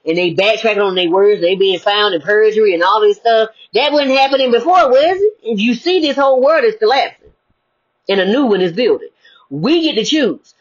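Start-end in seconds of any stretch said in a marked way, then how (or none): 3.7-5.3 pitched up, challenging question; rising rhetorical challenge. Real, not acted. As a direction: push the question up high. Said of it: "rhetorical challenge".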